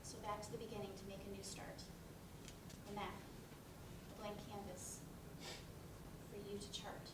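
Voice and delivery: soft, measured rhyming recital; poem recital. Acted. Narrator reciting a rhyme to the audience between scenes, soft and measured. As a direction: recite the verse gently.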